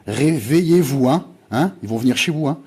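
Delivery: crie lentement « réveillez-vous » pour alerter; urgent call. Real, not acted. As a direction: appel pressant, plus fort et plus haut. Alarmed appeal to his viewers. (appel alarmé, voix forte)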